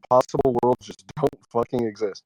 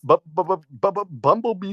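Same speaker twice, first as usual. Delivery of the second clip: stuttered beatbox sounds; 4 semitones higher than usual. Pretend. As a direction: sputter it like beatboxing. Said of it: "started beatboxing there".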